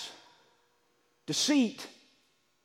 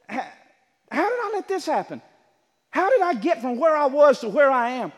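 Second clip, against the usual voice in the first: wondering aloud; 4 semitones higher, 4 dB louder than usual. Acted. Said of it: "you just wonder".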